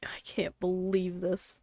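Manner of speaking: unvoiced disbelieving whisper. Real, not acted. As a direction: breathe it to yourself in disbelief. Muttering at own mistake.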